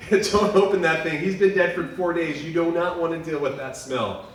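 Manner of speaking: a hint of a disgusted sister; mild mock protest from Mary. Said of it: "Mary's like".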